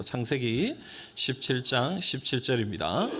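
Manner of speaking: slow it down so the congregation can follow; slow reading pace. Shown as a demonstration. Pastor leading the congregation in reading, slowly. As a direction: read "창세기 십칠 장 십칠 절입니다" slowly, word by word, with a rise. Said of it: "우리 같이 한번 읽어봅시다".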